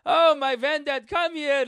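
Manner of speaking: put-on slow, loud, high old-man wail; passive-aggressive grandfather. Grandpa calling grandson over with a problem, passive-aggressive. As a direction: summon him with hammed-up accented woe. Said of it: "your grandfather passive aggressive".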